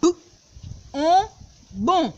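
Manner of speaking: "B", then the vowel, then "ba", each called out loudly; building syllables. Shown as a demonstration. Teacher joining B with vowels into syllables for the class. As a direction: spell out each syllable slowly in three beats. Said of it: "li genyen on tou".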